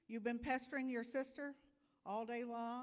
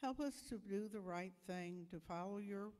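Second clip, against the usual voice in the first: calm, gentle prayer voice. Acted. Minister prays with children, gentle and calm.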